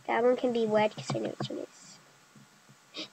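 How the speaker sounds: breathy whisper aside. Real, not acted. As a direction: whisper it to yourself.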